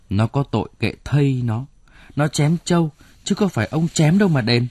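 a wife snapping back to protect the family's buffalo; indignant protest. Acted.

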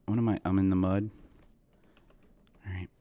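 usual speaking voice

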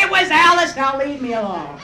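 a hint of a cornered husband, blurting out; flustered husband. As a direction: blurt a name to end it. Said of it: "and say".

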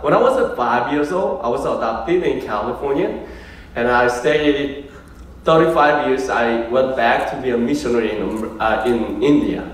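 put-on slow, deliberate Korean-accented English; Korean-American English. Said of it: "미국 캘리포니아에서 많이 살았었습니다".

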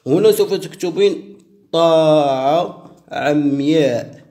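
هنا سوف تكتبين طاعة عمياء drawn out word by word; slow dictation. Shown as a demonstration. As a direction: dictate it slowly so she can write. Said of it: "repeats the line at a quicker pace".

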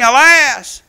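slow, mournful cry of alas; drawn-out lament. Acted. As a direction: stretch the word Alas out slowly like a lament. Lament quoted from scripture.

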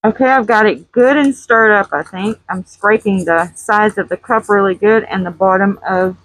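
talking through a dust mask; muffled voice behind a mask. Real, not acted. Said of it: "So if I sound muffled".

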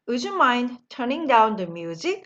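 very slow, every word laid out; slow model sentence. Shown as a demonstration. Teacher modelling the phrase slowly for the class. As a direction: spell it out slowly for learners to copy. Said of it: "다 같이 읽어볼까요".

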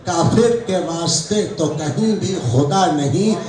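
deliberate mushaira delivery, lines repeated for effect; couplet recitation. Acted. Poet offers his answer to the master's couplet, measured recitation. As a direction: present the verse in measured phrases.

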